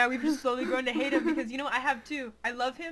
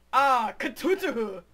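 slow, louder hammed-up man voice; 6 dB louder, much slower than usual. Shown as a demonstration. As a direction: drag it out in a gruff put-on voice. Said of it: "Could you say that again, that man voice".

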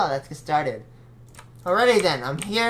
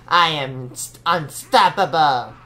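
unhinged villain; 2 semitones lower, 4 dB louder, slower than usual. Acted. Villain boast after evil laugh.

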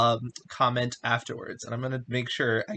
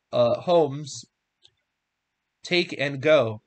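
measured, emphatic reading of a Bible story; scripture reading; 4 dB louder than usual. A narrator's reading. Reading Genesis aloud to listeners, emphatic scripture reading. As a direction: read it out with clear, weighty stresses.

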